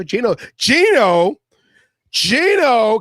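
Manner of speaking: "Geno" drawn out with a high swoop; big emphasis on each "Geno"; Geno in capitals. Retold or imitated. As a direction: say "Geno" as if in capital letters, stretched out. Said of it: "in capital letters".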